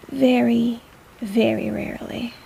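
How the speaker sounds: whispered very rarely. Acted. Healer whispering how rare the glow is. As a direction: breathe it out as a secret. Hushed emphasis.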